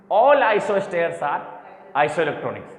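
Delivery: very slow, deliberate rule for students; teacherly, measured restatement; slow emphatic repeat. Real, not acted. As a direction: stretch out each word for the class.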